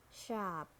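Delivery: "sharp" with a sounded American R; American "sharp", curl the R before p; American accent. Shown as a demonstration. Teacher models sharp for learners, American accent. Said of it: "R in American English".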